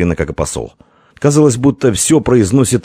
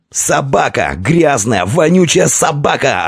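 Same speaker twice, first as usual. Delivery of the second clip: furious yelling; 8 semitones higher, slower than usual. A narrator's reading. Prince at the envoy, furious shouting. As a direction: spit the insults out. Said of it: "орал он".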